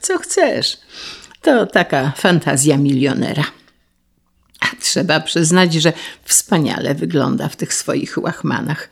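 usual speaking voice

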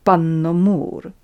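cold, forceful aristocratic reprimand; stern. A narrator's reading. Countess sets Natalia straight, stern and imperious.

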